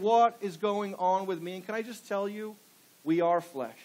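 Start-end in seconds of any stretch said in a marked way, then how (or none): 0.0-1.5 louder, slower, pleading cry of despair; anguished cry. Acted. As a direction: call it out like a man at the end of himself. Preacher voices Paul's anguished cry.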